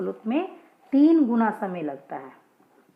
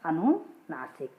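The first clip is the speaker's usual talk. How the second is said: slowed recap term; 4 semitones lower, slower than usual. Shown as a demonstration. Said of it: "और".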